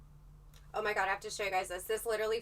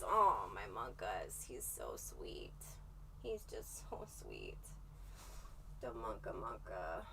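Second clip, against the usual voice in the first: slow, soft, lower cooing, half whispered; cooing to pet; 13 semitones lower, 11 dB quieter, slower than usual. Real, not acted. Host missing her cat, cooing slowly and softly.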